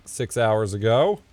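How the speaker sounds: normal talking voice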